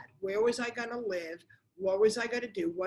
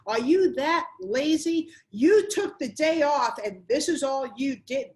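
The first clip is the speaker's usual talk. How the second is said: mock angry husband, higher and louder; retold yelling; 4 semitones higher, 5 dB louder than usual. Husband yelling at his wife on the couch, mock angry shout. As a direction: snap at her like the husband home to no dinner. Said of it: "he started yelling at me".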